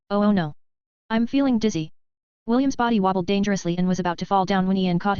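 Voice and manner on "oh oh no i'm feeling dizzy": flat, fake-dizzy monotone voice; deadpan, badly faked dizziness in a monotone. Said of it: "spoke in a monotone voice".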